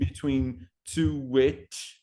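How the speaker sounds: "to which" said slowly as "tu-w-which", with a linking W; intrusive W sound. Shown as a demonstration. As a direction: glide a W between "to" and "which". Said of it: "I would use for intrusive sounds".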